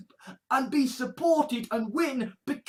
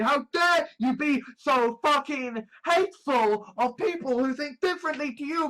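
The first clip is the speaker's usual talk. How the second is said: indignant rant; 4 semitones higher than usual. Acted. Acted rant at hateful opponent.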